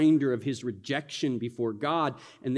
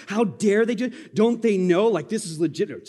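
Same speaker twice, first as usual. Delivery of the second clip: indignant; 5 semitones higher, 4 dB louder than usual. Retold or imitated. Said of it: "I mean, just listen".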